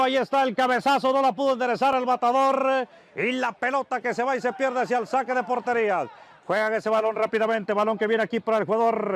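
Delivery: brisk live match commentary; play-by-play commentary. Acted. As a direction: call the action as it happens.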